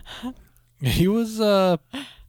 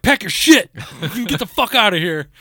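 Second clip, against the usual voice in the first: mock angry girlfriend; 8 semitones higher, 4 dB louder than usual. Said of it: "She's like".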